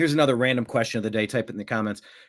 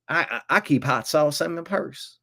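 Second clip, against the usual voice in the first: put-on Southern Hillary accent. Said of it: "my accent's getting a little weirder".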